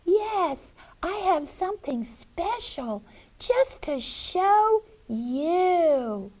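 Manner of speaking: put-on high, sugary old-lady voice; coaxing witch. Witch lures Hansel along.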